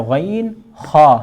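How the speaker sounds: غین خا drawn out slowly from the throat; slow letter demo. Shown as a demonstration. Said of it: "حلق کے اوپر والے حصے سے". (غین خا آہستہ حلق سے)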